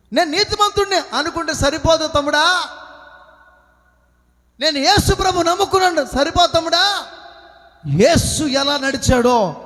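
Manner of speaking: full-force preaching. Real, not acted. Preacher assuring believers God never abandons them, full-force preaching. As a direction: preach it out to the congregation.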